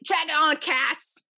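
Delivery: imitating a loud drunk friend calling out; loud obnoxious friend. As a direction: ham up a rowdy tipsy buddy bellowing. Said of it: "just being so loud and obnoxious".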